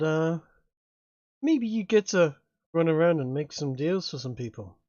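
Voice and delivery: lightly voiced demon, unhurried and bargaining; a smooth devil offering a contract; sly demon dealer. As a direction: GM as Seamus tempting the player. GM voices Seamus.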